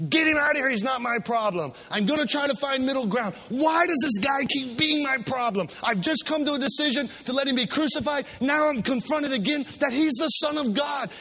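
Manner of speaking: exasperated, rising outburst; frantic Pilate. Acted. Pilate cornered again, frantic and exasperated. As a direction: throw up your hands in frustration. Preacher acting panicked Pilate.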